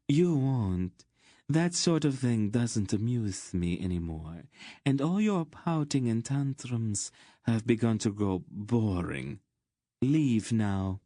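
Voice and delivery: bored, imperious contempt; cold dismissal. Acted. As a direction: wave off a tiresome lover. Queen dismisses her petulant lover.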